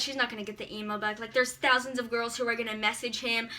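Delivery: mom's doubtful inner voice, low and soft; imagined inner thoughts. Retold or imitated. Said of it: "thinking in her head".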